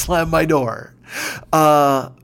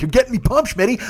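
higher-pitched, fired-up friend; retold excited yelling; 8 semitones higher than usual. Friend on the phone to a fellow fan, excited yell. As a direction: imitate a pal getting carried away. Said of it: "we start just fucking yelling".

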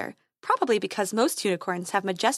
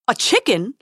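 squeaking; 2 semitones higher, 6 dB louder than usual. Acted. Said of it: "squeaked the prince".

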